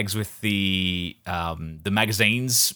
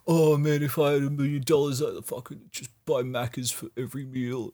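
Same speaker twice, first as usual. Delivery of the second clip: put-on kid voice; 4 semitones higher than usual. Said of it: "that stupid fucking kid logic of like".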